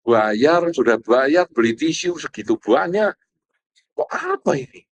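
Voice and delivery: mock grumbling spouse. Husband grumbling at his crying wife in the cinema, mock grumbling. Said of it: "Satunya ngomel-ngomel".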